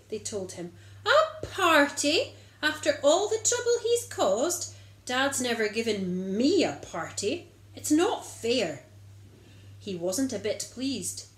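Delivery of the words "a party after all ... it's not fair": higher, louder indignant protest; a jealous older son complaining; grumpy indignant brother. Acted. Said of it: "He was very grumpy".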